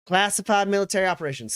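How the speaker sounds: pointed, rapid challenge; Graves. Acted. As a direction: throw his words back at him fast. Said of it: "She goes".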